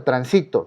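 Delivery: "transito" stressed on the middle syllable, tran-SI-to; acento grave. Shown as a demonstration. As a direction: lean on SI in "transito". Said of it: "en la penúltima sílaba". ("transito" con fuerza en la penúltima, tran-SI-to)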